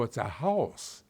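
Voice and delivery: "house" drawn out with a full, rounded diphthong; corrected diphthong. Retold or imitated. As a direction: slowly model "house" in trained announcer vowels. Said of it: "I had to learn how to use".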